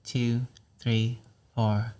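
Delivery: evenly spaced count, no lift; steady count on one note. Shown as a demonstration. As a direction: count slowly on a level pitch. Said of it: "I'm gonna count to five".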